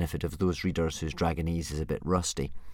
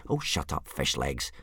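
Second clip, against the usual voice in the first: impatient; 6 semitones lower, 5 dB quieter than usual. Acted. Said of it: "said Hiccup impatiently".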